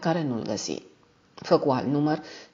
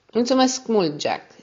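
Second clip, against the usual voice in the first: unhurried thanks, pitched up at the start; slow, measured; 6 semitones higher, 3 dB louder, slower than usual. A narrator's reading. Ned thanks Jack absently, slow and measured. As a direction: say the thanks slowly, a little higher. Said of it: "zise el rar".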